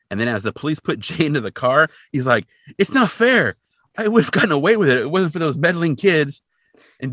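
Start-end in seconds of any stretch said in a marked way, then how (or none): 2.8-6.4 loud, high caught-villain complaint; mock outraged cartoon villain; villain whine. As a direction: yell it like a busted cartoon crook. Villain caught, classic line.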